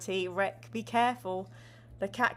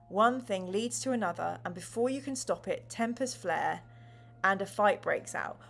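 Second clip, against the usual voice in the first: measured, clear read-aloud of the scene; story narration; 3 semitones lower than usual. Acted. Host narrating the gamebook to chat in a storyteller voice. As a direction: set the scene for the players.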